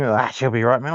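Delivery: a hint of a relaxed Aussie bloke; aussie tradesman. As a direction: shrug it off like a tradie. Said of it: "Because ev-, everything".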